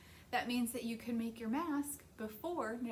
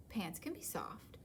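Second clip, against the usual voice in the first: softer, whispered plea; 4 semitones lower, 6 dB quieter than usual. Acted. Little panda pleads softly, whispered. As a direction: breathe it gently.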